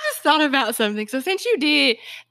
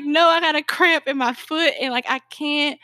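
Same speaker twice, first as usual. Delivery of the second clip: higher-pitched mock distress; hammed-up, higher-voiced protest; dramatic retelling; 5 semitones higher than usual. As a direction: replay your own cramp complaint dramatically. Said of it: "she's dramatic".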